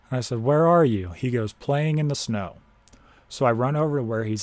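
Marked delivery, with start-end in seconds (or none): 0.4-1.1 loud higher call. Retold or imitated. Grandson searching in the dark, calling loudly. 1.5-2.6 called-back answer. Retold or imitated. Confused grandfather calls back.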